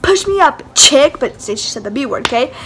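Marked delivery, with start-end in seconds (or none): 0.0-1.2 high-pitched mimicked order; bossy demand. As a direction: imitate a pushy girl demanding a boost. Retelling a girl's bossy demand.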